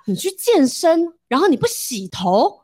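slow, astonished disbelief at first; surprised. Retold or imitated. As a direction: stretch it out in shock. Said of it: "一副非常诧异的脸看着我说". (男友惊讶地慢慢问)

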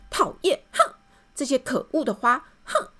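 high angry cry at the flowers; angry shout. Acted. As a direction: yell at the ugly flowers. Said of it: "他立刻大叫". (对着花朵生气大叫)

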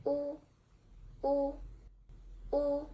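"wu" held high and level; first tone wu. Shown as a demonstration. Teacher modelling the first tone word "wu" for learners. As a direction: sing "wu" on one high steady pitch. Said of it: "Repeat after me for two times".

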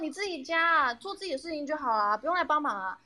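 high, sarcastic nagging tone; sarcastic scolding. Retold or imitated. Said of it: "他就会说".

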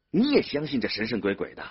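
glaring disbelief in the voice; indignant challenge. A narrator's reading. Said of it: "玉婷瞪起了眼睛".

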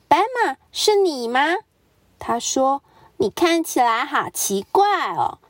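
high, quick and curious; chattering Mrs Duck. Acted. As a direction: rattle off the question. Duck questions zebra.

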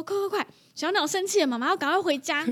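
mother rushing her son home, lightly urgent; urging the child. Retold or imitated. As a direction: hustle your little boy along. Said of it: "我就跟我儿子说".

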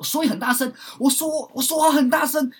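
loud talking. Shown as a demonstration. Showing the listener what loud speech is, shouted. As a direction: demonstrate speaking very loudly.

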